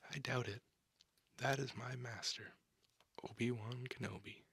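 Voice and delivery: a touch of pride in the master; mildly bragging; somewhat boastful. Acted. Anakin telling the women about his master, mildly boastful. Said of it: "meant to be read somewhat boastfully".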